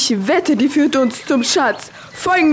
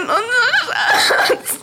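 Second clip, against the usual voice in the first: crying; 10 semitones higher, much slower than usual. Acted. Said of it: "Hör auf zu heulen".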